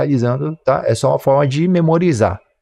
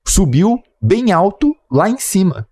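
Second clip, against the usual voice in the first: slow and higher, stretching out bem alto; drawn-out emphasis; 5 semitones higher, slower than usual. Shown as a demonstration. Teacher showing students an intentional pleonasm, slow and higher. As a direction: draw the climb out slowly, voice up. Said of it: "você poderia utilizar de forma intencional".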